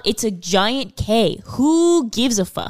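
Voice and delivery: slow, fed-up scolding of fans; exasperated mock rant. Mocking annoyed fans, fed-up slow rant. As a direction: tell the fans to drop it. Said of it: "I'm like".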